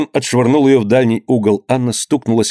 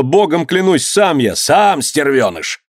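higher-pitched, urgent oath; desperate cry; 6 semitones higher, slower than usual. A narrator's reading. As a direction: swear it to a furious father. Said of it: "крикнул Данила". (отчаянный крик, клятвенно)

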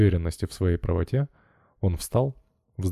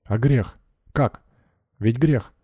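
stern; 4 semitones higher, 3 dB louder, slower than usual. A narrator's reading. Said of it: "уже строго нахмурив брови".

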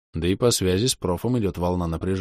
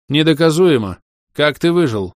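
loud, higher furious hiss; hissed anger; 8 semitones higher, 8 dB louder than usual. Acted. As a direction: hiss it at him. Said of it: "прошипел он". (яростно шипит)

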